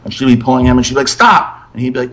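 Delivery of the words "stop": high-pitched mock snap; exasperated mother. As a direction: imitate a mom's sharp, high command. Retold mother snapping at child.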